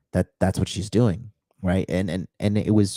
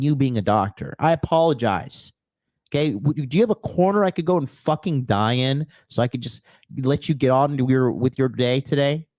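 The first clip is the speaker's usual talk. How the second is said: sarcastic comeback; 4 semitones higher than usual. Retold or imitated. Sarcastic reply to rude doctor.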